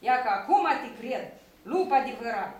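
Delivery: loud, emphatic praise; loud approval. Acted. Old shepherd praising a true wolf howl, loudly. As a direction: cheer the pupil on at full volume.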